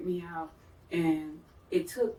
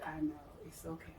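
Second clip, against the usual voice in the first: gentle reassurance; 3 semitones lower than usual. Retold or imitated. Friend comforting her as she cries.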